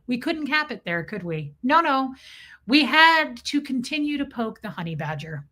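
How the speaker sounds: ordinary talk, nothing marked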